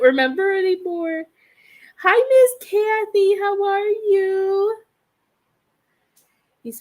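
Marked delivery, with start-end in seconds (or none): 2.0-4.7 cheerful greeting. Real, not acted. Greeting a viewer.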